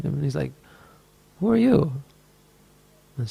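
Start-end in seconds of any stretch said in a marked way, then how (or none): 1.4-1.9 high, startled who-are-you, pitched way up; startled question. Retold or imitated. Monk startled by an angel crying beside him, surprised. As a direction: jump up in surprise at a stranger.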